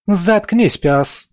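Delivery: high, loud bark. A narrator's reading. Aisha silences Leos with a loud bark. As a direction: snap the order like a whip. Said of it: "рявкнула Аиша".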